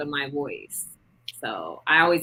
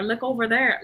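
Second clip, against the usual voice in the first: higher-pitched mock Saint Louis R's; imitated Saint Louis accent; 7 semitones higher than usual. Speaker quotes Saint Louis locals, imitated rolled-R accent. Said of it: "they roll their R's".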